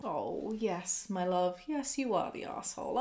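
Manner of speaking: tender. Real, not acted. Gently breaking verdict to OP.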